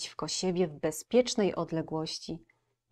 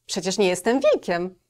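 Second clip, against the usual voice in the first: put-on higher, louder little girl voice; 6 semitones higher, 8 dB louder than usual. Girl calming the wolf in a high girlish voice. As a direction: reassure like an eager young girl.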